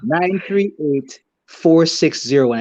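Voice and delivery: phone number slowed down in separated groups. Real, not acted.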